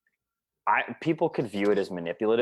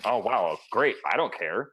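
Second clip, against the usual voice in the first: uninterested; 3 semitones lower than usual. Acted. Bored listener reacting to caller.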